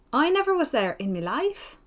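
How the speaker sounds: put-on broad Scotch accent. Lady Glenmire answering Miss Pole in a sweet broad Scotch accent. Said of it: "with a broad Scotch accent, but in a very sweet voice".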